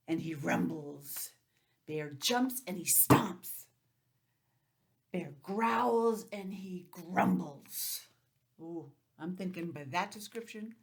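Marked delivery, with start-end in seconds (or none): 1.9-8.0 grumbling. A narrator's reading. Reading the stomping angry bear.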